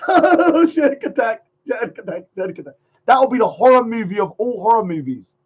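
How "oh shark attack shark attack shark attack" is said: mock fright fading; mock terror. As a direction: cry out then fade away in mock fright. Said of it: "you're going".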